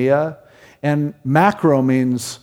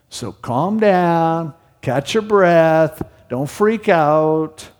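drawn-out, calming reassurance; slow right down and settle the listener; slow soothing; slower than usual. Acted. Calming words, slowed down.

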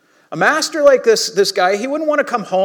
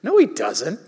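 dismissive puff, then mock protest; scoffing disbelief. Preacher voicing Jesus' audience, scoffing in disbelief. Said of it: "everyone in Jesus' audience would have been like".

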